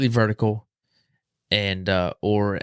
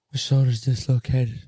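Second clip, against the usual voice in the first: a touch of tearful pleading, rising higher; retold crying plea; 3 semitones higher than usual. Injured player begging people on the field, mild tearful plea. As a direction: beg for help, lightly voiced as if crying. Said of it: "I'm crying at this point".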